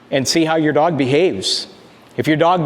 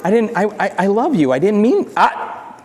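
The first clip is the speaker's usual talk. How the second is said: lightly voiced pleading dog; apologetic dog. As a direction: stammer a mock apology, as a guilty dog would. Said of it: "He's like".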